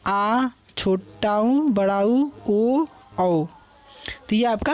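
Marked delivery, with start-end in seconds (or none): 0.1-3.4 each vowel sound held long and clear; slow, clear Hindi vowels; drawn-out vowel demo. Shown as a demonstration. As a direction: sound out आ, छोटा ऊ, बड़ा ऊ, ओ, औ slowly like a teacher. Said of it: "जैसे".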